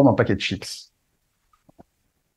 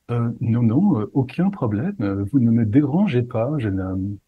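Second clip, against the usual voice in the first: pompous voice. Retold or imitated. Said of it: "avec une voix assez ampoulée".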